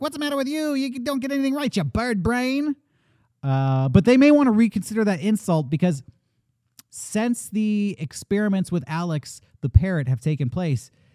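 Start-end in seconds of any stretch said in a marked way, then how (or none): 0.0-2.8 put-on rapid, very high old-timey tough-guy gangster voice. Retelling an old-timey grandpa arguing with you, in an old-timey gangster voice. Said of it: "he spoke like a gangster".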